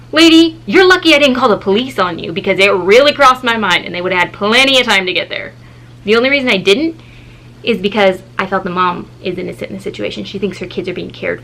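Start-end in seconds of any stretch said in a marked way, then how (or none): 0.1-5.5 fired-up retort. Retold or imitated. Inner retort to babysitter.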